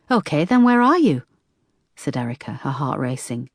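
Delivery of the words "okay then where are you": tense. A narrator's reading. Erica, heart racing, demands.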